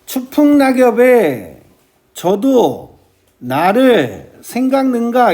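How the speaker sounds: deliberate recital with pauses between feet; measured verse reading. Shown as a demonstration. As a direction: set "저도" and "나를" apart with pauses. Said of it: "이렇게 읽어야 돼요".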